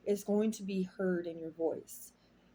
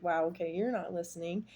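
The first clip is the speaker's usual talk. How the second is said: mildly frustrated. Retold or imitated. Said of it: "we get a little frustrated".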